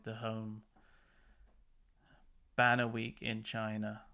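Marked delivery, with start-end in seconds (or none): 2.5-4.0 laughing. Real, not acted. Joke about Banner Week.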